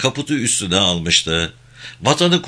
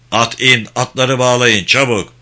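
urgent order; 2 semitones higher, 5 dB louder than usual. Acted. Urgent command before night attack.

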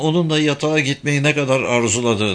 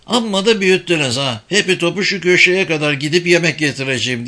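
put-on higher-pitched boy's grumbling protest; 6 semitones higher than usual. A narrator's reading. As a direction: complain on your way out, pitched up. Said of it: "diye söylenerek hole çıktı". (söylenen oğlan sesi, tiz)

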